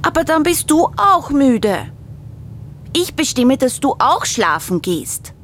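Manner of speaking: high, cheeky cub voice; little bear. A narrator's reading. Little bear bossing big bear back, high voice. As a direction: turn it back on him like a bossy cub. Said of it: "sagt kleiner Bär".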